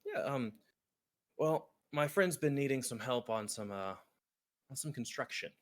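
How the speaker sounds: gambler NPC voice. Acted. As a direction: pitch up and play the smooth card sharp.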